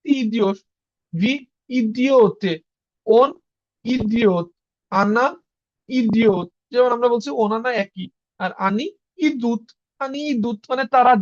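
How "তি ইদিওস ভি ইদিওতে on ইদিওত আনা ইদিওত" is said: slow demo. Shown as a demonstration. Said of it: "এই যে ইও আছে".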